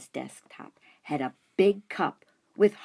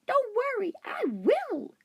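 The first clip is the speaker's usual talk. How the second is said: high, small hamster voice; hamster reassuring. A narrator's reading. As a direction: promise brightly as a tiny hamster. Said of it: "I assured her".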